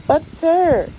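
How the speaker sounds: high, loud pleading; Grand Duke's plea. Acted. Grand Duke objecting to the king, high and pleading. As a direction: protest nervously to the king.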